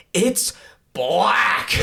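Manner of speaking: tense, exasperated, strained high-pitched rasp. Retelling turning to Dan, who can't find a piece: acting strained, vein-popping. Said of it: "I say it like that, like with a vein popping out of my neck".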